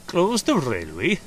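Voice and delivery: slow, amused incredulous question; assuring. A narrator's reading. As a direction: echo it with a reassuring smile. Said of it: "smiled assuringly".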